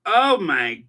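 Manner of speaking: stunned groan at the voice; slow dismayed oh my God; shocked exclamation. Retold or imitated. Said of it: "I was like".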